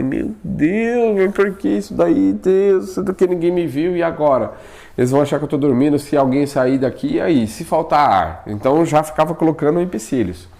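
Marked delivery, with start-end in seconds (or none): 0.0-8.4 pleading to God, pitched up high; a frightened man begging for rescue; panicked prayer. Retold or imitated. Paralyzed man praying to God, pitched-up fearful plea.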